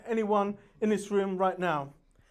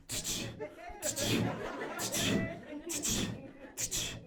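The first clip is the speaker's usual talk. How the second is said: mock clapping sound; 3 semitones higher, 12 dB quieter, slower than usual. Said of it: "my arse cheeks are going".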